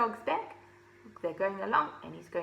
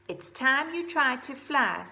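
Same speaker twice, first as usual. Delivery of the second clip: mother owl; 5 semitones higher, 4 dB louder than usual. Acted. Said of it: "said Mother Owl one day".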